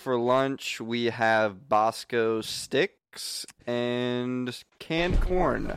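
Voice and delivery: slow stiff PA announcement; school announcement voice. Acted. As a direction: drone the lunch menu over the intercom. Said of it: "talking like you're reading a school announcement".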